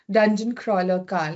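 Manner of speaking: mock Indian accent on Dungeon Crawler Carl. Shown as a demonstration. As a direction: try the title in an Indian accent. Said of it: "Let me try it with an Indian accent".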